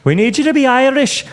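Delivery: high-pitched imitation of a director's demand; mock director. Co-host joins in as the director, mock exasperation. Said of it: "my director would be like".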